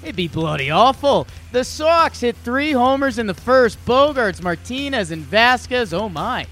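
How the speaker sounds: put-on lively British announcer accent, pitched high; high, emphatic British sportscaster impression. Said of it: "the only way I can tell a British accent".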